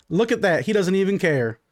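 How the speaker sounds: needling wife. Acted. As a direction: toss out a jibe at your husband. Urena jabs at Clyde.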